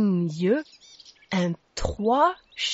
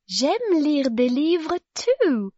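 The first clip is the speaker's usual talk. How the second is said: put-on higher, slow, drawn-out girl's voice; lightly voiced storybook girl; agreeing girl; 6 semitones higher, slower than usual. A narrator's reading. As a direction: agree as the child, stretching the words out. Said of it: "agreed Zoe".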